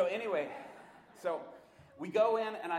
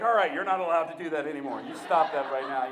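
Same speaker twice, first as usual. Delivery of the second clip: firm command; 11 dB louder than usual. Retold or imitated. Commanding the spirit, laughing.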